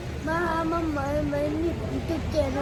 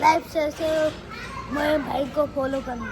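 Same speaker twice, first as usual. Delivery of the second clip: a bit louder. Pretend. Small child asking viewers to like and follow, a bit louder. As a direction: speak up a little, spacing the first words. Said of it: "થોડું જોરથી બોલો".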